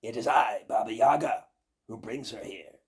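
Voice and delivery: loud commanding witch; witch crying out. Acted. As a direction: call off the birch tree like a witch. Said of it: "the witch cried out".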